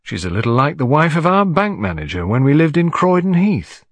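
Miss Lemon, casual. Acted. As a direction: offer a casual, unimpressed comparison. And remarked.

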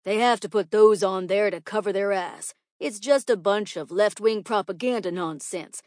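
loud, opinionated schoolteacher; ranting teacher. Acted. Teacher dismisses warnings as propaganda, loud and indignant.

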